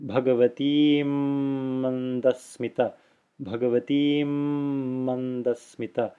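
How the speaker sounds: lengthened double m joining "Bhagavatim" to "Mandasmita"; doubled ma. Shown as a demonstration. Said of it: "becomes like a double ma here".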